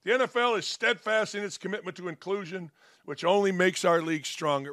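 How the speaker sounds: rattling off the official statement fast; fast, dismissive read of the league's words; mock statement reading. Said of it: "Beanie says".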